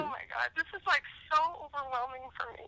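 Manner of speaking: tearful, half-whispered; overwhelmed and fighting tears; real tears in the voice; choked up. Real, not acted. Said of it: "She's crying".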